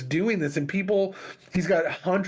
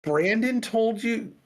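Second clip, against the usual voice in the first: shocked question; 7 semitones higher, slower than usual. Retold or imitated. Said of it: "the person goes".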